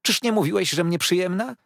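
high weepy accusation; tearful. A narrator's reading. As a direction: Dora accuses her husband, mildly tearful. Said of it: "płakała gorzko".

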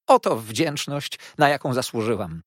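loud, high, wounded complaint; tearful outburst. A narrator's reading. Mother reproaches ungrateful daughter, tearful outburst. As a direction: burst out aggrieved, drawing out the first words. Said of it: "rozszlochała się pani Merkelham".

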